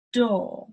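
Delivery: "Door" said as daw, no R; British door. Shown as a demonstration. Teacher shows "Door" as daw to learners. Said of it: "door sounds like D A W".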